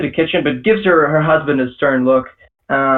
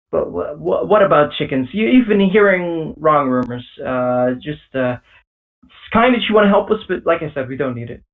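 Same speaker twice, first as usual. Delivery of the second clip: flustered father. Acted.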